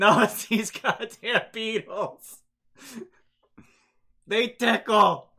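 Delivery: very loud, shrill, agonized yell through laughter. Game master voicing the boulder Pert answering Gurk's call, an agonized yell through laughter. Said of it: "yells out in clear agony through their laughter".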